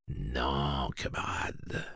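soft whispered calming word; murmured. Acted. Eddie quietly disarms the grieving father, whispered. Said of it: "murmura-t-il".

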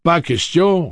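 big loud laugh through words; laughing loudly. Acted. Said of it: "riant plus fort que jamais".

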